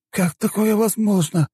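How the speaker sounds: high, slow, strained question; horrified incredulous cry; shocked disbelief. A narrator's reading. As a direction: stretch it out aghast, high in the voice. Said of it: "Он не поверил в увиденное".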